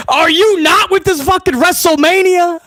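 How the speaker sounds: laughing at how bad it is; incredulous chuckle through the words; disbelieving laugh. Real, not acted.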